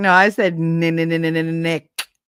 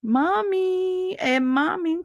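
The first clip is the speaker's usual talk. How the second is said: mock catcall; 12 semitones higher, 4 dB quieter, much slower than usual. Mimicking catcallers.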